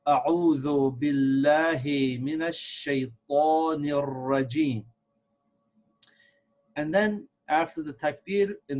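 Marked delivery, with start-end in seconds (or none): 0.1-4.8 measured Arabic recitation with long vowels; model recitation. Shown as a demonstration. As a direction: recite it whole, carefully and evenly. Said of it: "So one more time".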